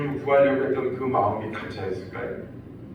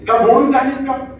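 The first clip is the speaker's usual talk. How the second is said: high, louder mock shout of 모른다니까; angry denial; 8 semitones higher, 5 dB louder than usual. Peter yelling at the crowd, hammed-up angry denial. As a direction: snap back as if cornered. Peter cursing his accusers.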